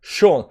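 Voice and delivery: "Sean" said as "shawn"; common pronunciation. Shown as a demonstration. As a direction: model "Sean" with a round aw vowel. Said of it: "Sean is commonly pronounced Sean".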